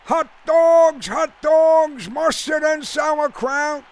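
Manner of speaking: high, loud hot-dog hawker's call; vendor's cry. A narrator's reading. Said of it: "cries of the Frankfurter vendors".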